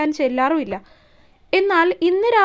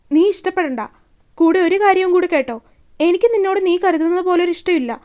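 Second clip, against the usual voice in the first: louder, hard and final; blunt rejection; 2 semitones higher, 3 dB louder than usual. Acted. Shiva flatly rejecting Isha's love, loud. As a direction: lay it down bluntly.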